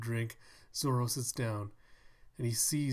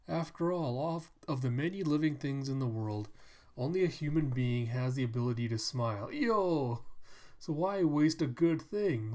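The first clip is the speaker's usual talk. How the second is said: cheerful Tonoyasu voice; 2 semitones higher, 3 dB louder than usual. Pretend. Tonoyasu greets Zoro cheerfully.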